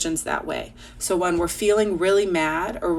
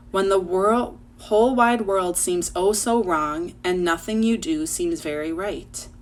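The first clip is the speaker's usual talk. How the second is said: put-on rhythmic read-aloud of a children's poem. Teacher reading a Mister Rogers poem to her class, poem read-aloud. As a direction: read the verse to the class with a lilt.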